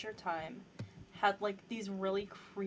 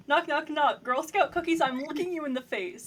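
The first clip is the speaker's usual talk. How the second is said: loud, bossy mock challenge; loud demanding; 4 semitones higher, 9 dB louder than usual. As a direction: lay down the rules loudly. Acting out a door-to-door confrontation.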